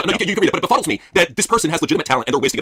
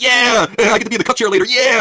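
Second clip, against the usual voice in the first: higher, slow mock giddy cheer; a lightly hammed-up giddy fan; mock excitement; 9 semitones higher, 3 dB louder, slower than usual. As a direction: gush like an eager fan. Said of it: "He's all excited".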